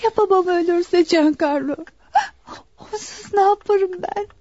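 on the verge of tears; worried, tearful pleading. Acted. Daughter fears her father may die, tearful. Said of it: "Ağlama Marianella".

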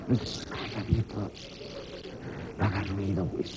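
a hunter whispering to his friend not to scare the prey; hushed hunter. Retold or imitated. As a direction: hiss it like you're stalking a lion. Hunter hushing on the hunt.

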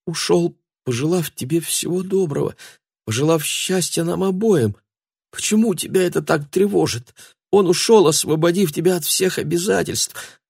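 high, pleading voice; lightly voiced girl pleading with Matthew; frightened girl. A narrator's reading. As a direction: plead with trembling hope.

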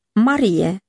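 lightly voiced Jesus saying her name in a familiar tone. A narrator's reading. Jesus calls Mary by name, familiar tone. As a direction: call her name in the tone she knows. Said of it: "pe tonul cunoscut de ea foarte bine".

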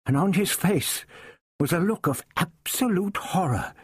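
usual speaking voice

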